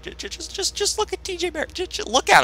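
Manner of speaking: high, soft giddy stammer; stammering in hushed glee; excited stammer. Real, not acted. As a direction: trip over the words from excitement. Stammering excitement over a player.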